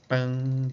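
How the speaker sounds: ringing "pam" with a sharp attack, then decay; imitated piano note. Shown as a demonstration. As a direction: strike "pam" like a piano key. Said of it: "Imagina o piano".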